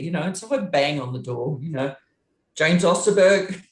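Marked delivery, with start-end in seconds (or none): 2.5-3.6 raised, stern mum calling out his full name; scolding mum. Retold or imitated. Tour manager banging on a singer's dressing-room door, stern mum call. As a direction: summon him like a cross mother at the door. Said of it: "like I'm his mum".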